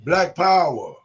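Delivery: rising rally chant, call and response; ranting dictator speech. Real, not acted. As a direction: whip up the crowd.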